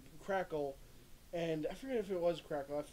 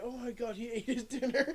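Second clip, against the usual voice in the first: laughing parody; 7 semitones higher, 4 dB louder than usual. Retold or imitated. Joking parody of the anime line.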